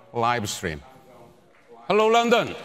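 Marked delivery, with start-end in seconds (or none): 1.9-2.5 calling out. Real, not acted. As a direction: hail a distant audience in a raised pitch. Presenter calls out to remote audience.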